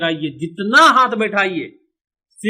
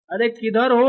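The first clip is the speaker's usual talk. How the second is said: lightly acted call, pitched higher; animated character calling; 4 semitones higher than usual. Character looking for someone, lightly acted calling. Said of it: "अब ये बोलेगा".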